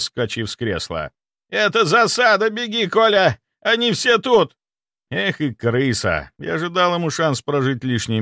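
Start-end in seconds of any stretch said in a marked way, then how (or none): 1.5-4.6 panicked yelling. Acted. Doctor keeps yelling warning.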